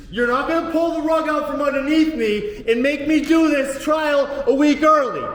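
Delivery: rising to a furious yell at the judge; angry shout. Real, not acted. Defendant yelling at the judge, furious shout. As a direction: shout it down at the bench.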